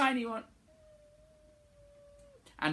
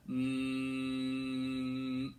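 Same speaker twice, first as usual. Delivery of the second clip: one-note hum; 5 semitones lower, 7 dB quieter than usual. Shown as a demonstration. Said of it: "humming one note".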